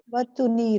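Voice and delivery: وَتُنِيرُ said with a clear u sound on the ت, watunir; corrected pronunciation. Shown as a demonstration. Teacher models وَتُنِيرُ for the student, watunir with a clear u. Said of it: "اس پہ بھی پیش کریں".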